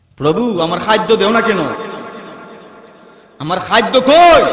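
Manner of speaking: normal talking voice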